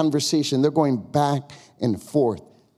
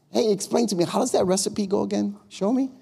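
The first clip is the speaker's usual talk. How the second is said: raised, eager request; asking for a recipe; 6 semitones higher than usual. Shown as a demonstration. Telling the ladies how to ask, eagerly raised. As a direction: ask like a keen friend.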